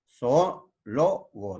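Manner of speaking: "Zoólogo" slowly broken into syllables; vowels separated. Shown as a demonstration. Teacher showing a hiatus, "Zoólogo" slowly syllable by syllable. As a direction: stretch zo-ó, pause, lo-go in "Zoólogo". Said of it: "dos hiatos".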